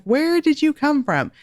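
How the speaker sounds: high startled parent asking; a mother caught off guard by her child; shocked parent. Retold or imitated. Shocked mother asking her suddenly rude child. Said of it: "I'm like".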